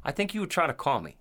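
ordinary talk, nothing marked

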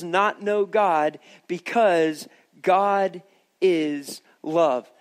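slow, measured scripture reading. Acted. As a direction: read the verse with weight.

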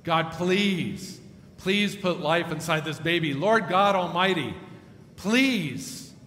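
pleading prayer that swells at Lord God Almighty; retold fervent prayer. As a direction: beg God for the baby's life. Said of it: "praying like this and praying her heart out".

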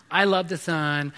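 a hint of a dreamy little girl, slowed; lightly voiced six-year-old gushing slowly; princessy little girl. Father imitating his daughter loving the sun, lightly sing-song. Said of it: "And she's talking like that".

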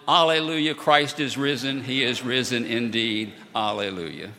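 loud, bright congregational response; joyful response. Retold or imitated. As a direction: answer the Easter call with joy. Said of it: "they all smiled and responded".

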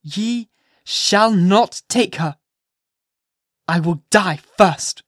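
high, loud, impassioned mother at bay; fierce defiance. A narrator's reading. Hester to the magistrates, fiercely refusing to give up Pearl. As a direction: defy them as if ready to die for her. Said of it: "this wild and singular appeal".

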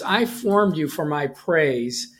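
slow, weighty lines from a frustrated God. Acted. Preacher voicing God's frustration to his people, slow and heavy. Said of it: "the frustration in God's voice here".

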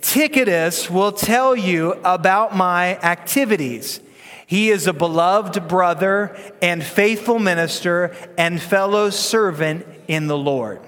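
put-on slow, deliberate read-aloud with the kids; measured congregational recitation; slow group reading. Shown as a demonstration. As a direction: lead the room reading scripture together, slowly. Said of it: "Ready? One, two, three, go".

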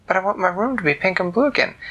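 put-on a child begging for her room back; mock whimpering girl; whiny plea. Girl pleads.

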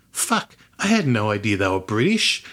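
surprised, with big pitch swings on the key words; retelling your own astonished reaction; retold surprise. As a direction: react as if just finding out, mildly incredulous. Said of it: "I always get surprised".

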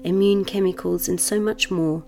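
measured meditation voice with long pauses; guided meditation. Acted. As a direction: guide the listener into settling, unhurried.

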